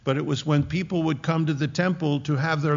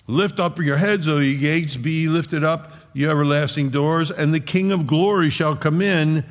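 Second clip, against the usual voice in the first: raised, measured antiphonal proclamation; priest's call; 3 semitones higher, 4 dB louder than usual. Acted. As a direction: declaim it phrase by phrase toward the wall. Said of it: "what's getting screamed on the walls".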